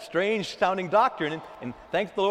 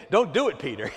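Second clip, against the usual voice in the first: laughing call-out; 5 dB louder, faster than usual. Acted. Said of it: "Somebody say".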